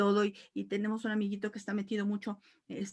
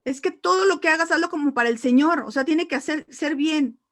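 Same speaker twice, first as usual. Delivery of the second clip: louder, higher exasperated scolding of her husband; exasperated telling; 5 semitones higher, 9 dB louder than usual. Retold or imitated. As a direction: push it at him, losing patience. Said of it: "terminé por decirle".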